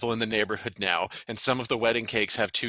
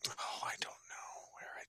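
whisper; 21 dB quieter than usual. Real, not acted. Muttering to herself, whispered.

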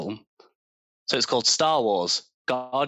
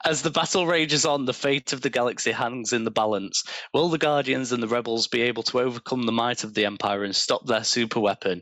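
space opera narrator. A narrator's reading. Reads AI story aloud.

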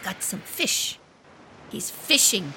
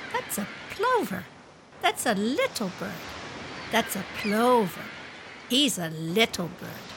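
put-on child-directed speech. Wife plays beach mother showing her child the birds, in lively child-directed speech. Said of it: "a really great use of child-directed speech".

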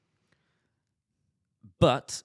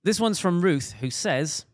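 higher, louder radio DJ read, name corrected; 8 semitones higher, 4 dB louder than usual. Acted. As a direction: introduce it like a radio presenter. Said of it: "my radio D J voice".

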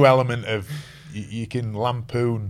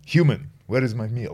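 put-on emotionless Russian accent. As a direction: voice the dog in a light, unemotional Russian accent. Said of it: "he's very emotionless".

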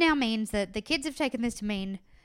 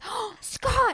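much higher, bursting with joy at hearing his brother; light up as if your little brother just spoke; delighted greeting; 11 semitones higher than usual. Retold or imitated. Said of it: "the love you heard in his voice".

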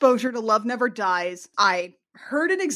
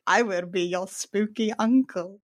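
John Zajian voice; 3 semitones lower than usual. Retold or imitated. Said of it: "doing John Zajian voice".

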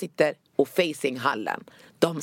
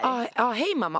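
high, falsetto greeting to mom; nervous falsetto; 7 semitones higher than usual. Retold or imitated. Scared daughter greeting her mother in falsetto. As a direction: fake calm in a scared falsetto. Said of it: "Men jag är falsett för jag är rädd".

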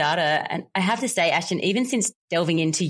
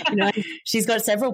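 smiling; 4 semitones higher than usual. Real, not acted. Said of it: "I can hear the smile in your voice".

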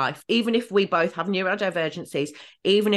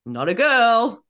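higher, louder, drawn-out correction; slow, pointed reminder, retold; acted-out correction; 5 semitones higher, 5 dB louder, slower than usual. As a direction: stretch it out to pull up a friend. Acts out friend's correction.

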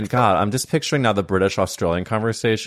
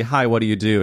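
1 American greeting; 2 semitones higher than usual. Shown as a demonstration. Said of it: "instead of".

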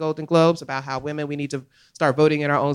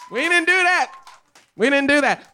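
emphatic denial; 10 semitones higher, 5 dB louder than usual. Real, not acted. Insisting, repeated with emphasis.

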